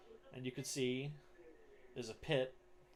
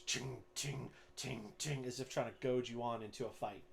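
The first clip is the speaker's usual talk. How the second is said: ringing metal ting, repeated; imitated shield clanging. Goliath goads the fighter by clacking his shield, imitated tings. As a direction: mimic sword striking shield. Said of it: "clacks his shield with his sword".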